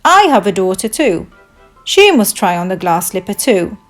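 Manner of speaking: insist, with punched first words; crying out. Acted. Father speaking up for his daughter, crying out. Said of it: "cried Cinderella's father".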